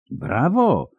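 high-pitched cheer; gleeful high exclamation. A narrator's reading. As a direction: call out a high bravo. Onlooker cheers the beating.

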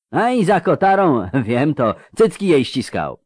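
mounting indignation of an affronted father; an acted, restrained roar of protest; booming, roaring outrage. A narrator's reading. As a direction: build through outraged rhetorical questions. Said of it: "zaryczał ten basowy dudniący".

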